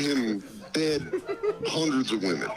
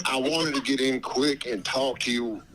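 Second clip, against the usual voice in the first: Dave Chappelle voice. Pretend. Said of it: "You sound just like him".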